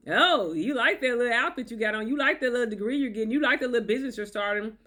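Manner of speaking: condescending mock tone; belittling. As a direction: talk down to her achievements. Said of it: "Constant belittlement".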